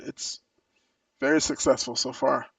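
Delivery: talking while sipping coffee; words round a sip of coffee; slurping coffee. Real, not acted. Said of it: "pardon my slurp".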